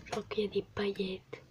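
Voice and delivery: hushed aside; whispering. Real, not acted. (chuchoté)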